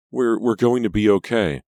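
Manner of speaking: high, loud, stammering relief; girl gasping relief after the rescue; relieved exclamation. A narrator's reading. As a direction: blurt it out shaking with relief. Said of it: "exclaimed with a shudder of relief".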